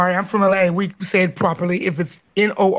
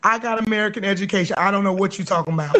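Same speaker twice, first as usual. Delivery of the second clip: quoting fast; faster than usual. Retold or imitated. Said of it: "make a shirt".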